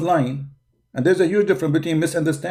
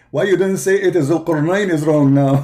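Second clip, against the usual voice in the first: laughing; 2 semitones higher, 4 dB louder than usual. Real, not acted. Mocking opponent's logic, laughing.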